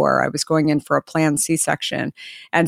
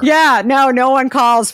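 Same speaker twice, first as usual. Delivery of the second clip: laughing exclamation; 8 semitones higher, 5 dB louder, slower than usual. Real, not acted. Laughing agreement about no calls.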